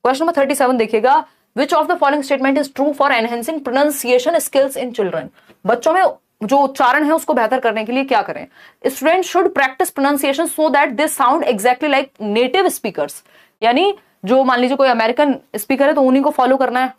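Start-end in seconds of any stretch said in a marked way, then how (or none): 1.6-5.3 slow, deliberate reading of the question; reading question aloud. Acted. Reads exam question aloud. 8.9-13.1 slow, deliberate reading of the question; reading question aloud. Acted. Reads answer option.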